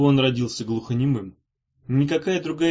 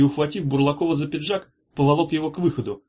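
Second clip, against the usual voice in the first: plain reading voice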